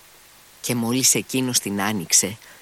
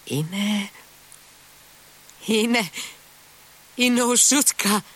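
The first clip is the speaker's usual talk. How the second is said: much higher, voice cracking with pain and happiness; cry of joy; 10 semitones higher than usual. A narrator's reading. Sick boy recognizing his lost dog, cracking cry. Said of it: "φώναξε ξαφνικά ... ράγισε από πόνο και ευτυχία".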